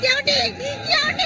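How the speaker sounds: tearful call. Acted. Mother calls husband in distress.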